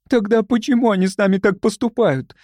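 high, plaintive question; tearful. A narrator's reading. Young woman asking why the hosts act so, tearful. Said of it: "всхлипнула Любочка".

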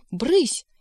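high, sharp shooing cry; retold shout. A narrator's reading. Secretary shooing the black cat, retold high shout. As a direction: shoo it away with a yelp. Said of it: "кричу ему".

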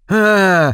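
a long acted cry, held back from full force; narrated scream. A narrator's reading. Creature's wail piercing his ears, narrated scream. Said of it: "вонзился в уши вопль".

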